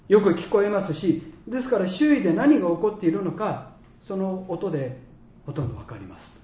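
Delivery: measured, emphatic retold briefing; nurse explaining carefully. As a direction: explain each step firmly to a patient.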